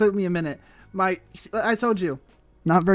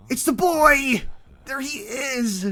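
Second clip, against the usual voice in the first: excited; 7 semitones higher, 4 dB louder, slower than usual. Real, not acted. Excited at game character.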